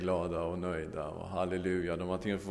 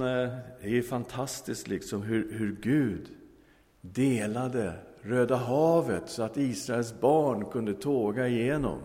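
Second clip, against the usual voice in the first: raised, louder, slowed on Röda havet; excited marveling; 4 semitones higher, 5 dB louder than usual. Acted. Hippie explaining the miracle to the theologian, amazed. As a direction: savor the wonder of it. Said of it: "sa han".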